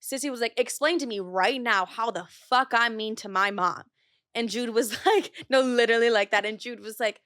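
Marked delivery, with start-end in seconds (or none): 0.6-3.8 slow, firm retold confrontation; measured, no-nonsense mock challenge; shutting it down. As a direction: imitate a sister demanding an answer. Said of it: "shuts it down like no other".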